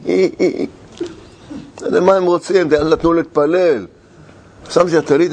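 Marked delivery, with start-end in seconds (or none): 0.0-0.7 mocking laughter imitation. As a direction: imitate a carriage full of laughers. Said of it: "צוחקים הגויים".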